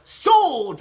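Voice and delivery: loud, high "Sold!" like a gavel drop; mock auctioneer calling sold; auctioneer's call. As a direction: bang it out like an auctioneer closing a lot.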